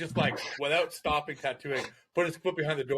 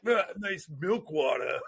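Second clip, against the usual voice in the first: sarcastic quote; 3 semitones higher, slower than usual. Retold or imitated. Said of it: "McEwen be like".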